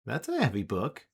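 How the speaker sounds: lightly squeaky character voice; a hint of high squealiness; high-pitched squeal. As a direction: let the pitch jump up into a squeal. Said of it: "as his voice goes back to its high-pitched squealiness".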